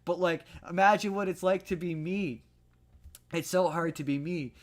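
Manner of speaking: high, whiny self-pitying sob voice; mock crying. Filmmaker's hero apologizes in self-pitying tears, mock crying. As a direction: ham up a pitiful teary plea. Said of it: "And he starts crying".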